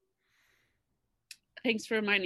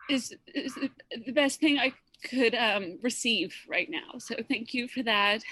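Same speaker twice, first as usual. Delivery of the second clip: crying. Real, not acted. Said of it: "And I'm sorry I'm crying".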